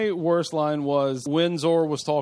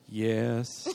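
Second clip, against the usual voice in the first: dismissive yes; 3 semitones lower, 5 dB quieter than usual. Retold or imitated. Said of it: "she's so dismissive of it".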